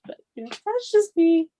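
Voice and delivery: playful self-mock. Joking aside about herself.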